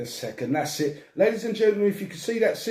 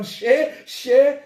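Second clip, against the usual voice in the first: imitating friend; 8 semitones higher, 7 dB louder than usual. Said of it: "Every time I see him go".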